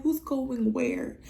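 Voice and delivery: high, drawn-out mock disbelief; acted-out incredulous question, high and slow; incredulous retort.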